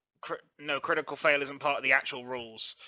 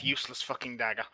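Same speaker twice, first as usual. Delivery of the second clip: muttered curse, softly; cursing under breath; 3 semitones lower, 6 dB quieter than usual. Acted. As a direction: grumble it under your breath. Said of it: "I mutter under my breath".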